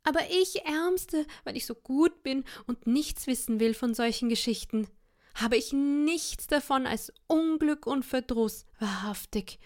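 high, wailing self-pity; wife pretending to cry to husband; fake weeping lament. A narrator's reading. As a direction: wail her misery, pitch up. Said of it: "fing sie an zu weinen".

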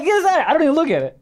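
swat it away in mock disgust. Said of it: "I'm like".

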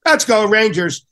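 lightly imitated Brooklyn shout; a touch of Brooklyn cheer for the team; Brooklyn accent cheer. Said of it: "in his Brooklyn accent".

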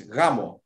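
"gamo" with the emphasis on the A; stress on the A. Shown as a demonstration. Teaching Greek for wedding, "gamo" stressed on the A. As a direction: lean on the first syllable of "gamo". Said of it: "it's where you put the emphasis".

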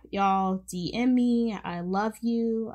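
usual speaking voice

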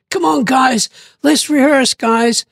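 calling out to sleeping mates to rehearse; rousing shout, come on let's go; eager call to wake the band. Retold or imitated. To bandmates asleep in the bedroom, an eager calling out.

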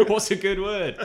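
high, slow, loud cartoon impression; drawn-out mock greeting; Simpsons quote. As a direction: holler it like a hammed-up cartoon, laughing. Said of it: "thinking of that Simpsons".

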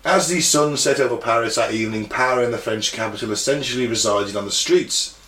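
measured, even read-aloud narration; history narration. A narrator's reading. Reads history script aloud.

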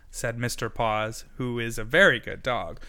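ordinary delivery

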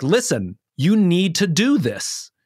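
put-on slow down to drive the point home to your kid; slow important point. Shown as a demonstration. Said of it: "I'm gonna slow down and make that point".

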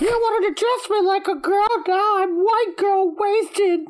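put-on drunk monkey voice.

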